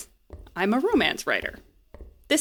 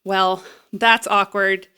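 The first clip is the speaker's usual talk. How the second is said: slow teasing; slower than usual. Acted. Exposing the teens' secrets.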